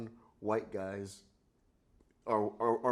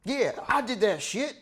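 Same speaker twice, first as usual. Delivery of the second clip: loud, high movie-character impression; hammed-up actor impression; John Travolta; 7 semitones higher, 5 dB louder than usual. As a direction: mimic the film role, pitched up. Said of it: "pretty good Black Travolta".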